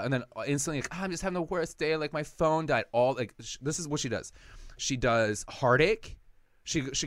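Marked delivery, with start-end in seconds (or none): 0.9-2.8 high, whiny mock sob story; mock whiny girlfriend. Mocking dad's girlfriend whining to get money, high and whiny. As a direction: ham up her fake bad day.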